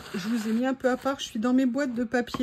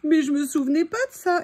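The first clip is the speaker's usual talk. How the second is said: about to sneeze; 4 semitones higher, 5 dB louder than usual. Real, not acted. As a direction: voice tight before a sneeze. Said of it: "je vais éternuer". (au bord de l'éternuement)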